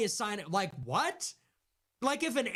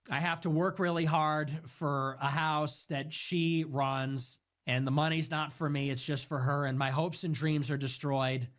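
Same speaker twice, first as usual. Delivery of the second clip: mock despair; 3 semitones lower than usual. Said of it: "what young man is like".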